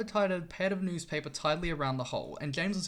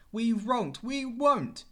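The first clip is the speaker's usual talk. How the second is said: higher, louder defiant cry; screaming trucks; 6 semitones higher, 5 dB louder, much slower than usual. A narrator's reading. Trucks defying James, a raised mock scream. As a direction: trucks refusing, pitched up and loud. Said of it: "screamed the trucks".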